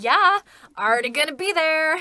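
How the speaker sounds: high, loud excited yeah; excited reply. Retold or imitated. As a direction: blurt it out eagerly. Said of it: "And I was like".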